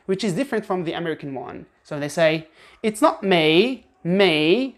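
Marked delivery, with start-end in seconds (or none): 2.8-4.7 me rising at the end, British style. Shown as a demonstration. Teacher shows the British rising me. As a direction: lift me up at the end. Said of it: "and again they go up".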